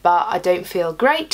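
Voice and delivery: raspy from being sick; croaky, under the weather; hoarse voice. Real, not acted. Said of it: "you can hear it in my voice".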